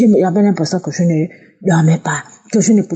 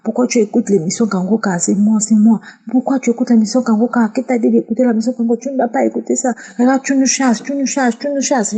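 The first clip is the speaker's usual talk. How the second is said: démon plus aigu, de plus en plus haut; voix du démon; 4 semitones higher than usual. Retold or imitated. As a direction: faire parler l'esprit qui se plaint d'être chassé. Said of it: "une voix a parlé à moi". (l'esprit chassé se plaint à la femme, voix aiguë)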